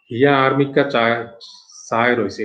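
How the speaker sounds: plain voice, Sandwip regional speech; Sandwip dialect. Shown as a demonstration. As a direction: read it in Sandwip dialect wording. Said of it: "এটা সন্দীপের".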